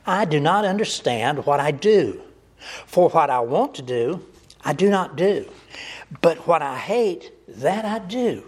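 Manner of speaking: rising, pleading cry of a tormented apostle; anguished cry. Acted. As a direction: cry it out as if torn inside. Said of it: "he cries out".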